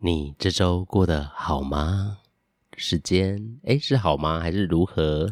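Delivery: put-on low sexy voice. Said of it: "我这声音会听起来很鸡掰吗？".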